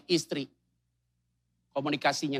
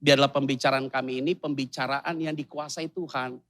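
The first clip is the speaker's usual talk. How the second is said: husband's prayer; 3 semitones lower than usual. Retold or imitated. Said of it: "suaminya kalau berdoa kan pasti to the point".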